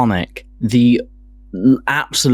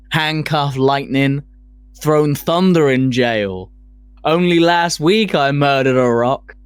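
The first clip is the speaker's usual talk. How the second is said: Ali quote read; 3 semitones higher than usual. Retold or imitated. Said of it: "You gotta do the accent".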